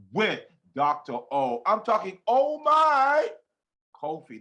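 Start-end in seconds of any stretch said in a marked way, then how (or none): 2.3-4.4 excited exclamation. Real, not acted. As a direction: gush oh my then breathe out the name Kofi. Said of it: "That's the only way to say your name".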